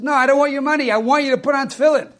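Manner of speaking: put-on insistent kid. Kid insists again, harder.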